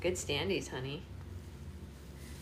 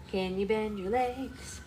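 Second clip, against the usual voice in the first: slow coaxing; 2 semitones higher, slower than usual. Real, not acted. Mother asks the baby once more to bend, slow coaxing. Repeats request to baby slowly.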